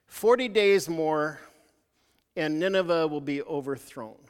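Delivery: slow, weighty prophet's pronouncement; slow proclamation. Retold or imitated. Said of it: "and what he said is".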